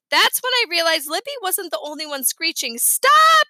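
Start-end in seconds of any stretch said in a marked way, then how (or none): 2.8-3.5 high, loud yell; sharp raised-voice command; urgent shout. A narrator's reading. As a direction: shout to halt a runaway. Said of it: "I shouted".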